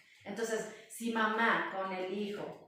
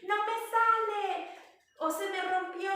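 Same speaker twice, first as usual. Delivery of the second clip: put-on frustrated child; 11 semitones higher, 8 dB louder than usual. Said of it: "no aprendieron cómo decir".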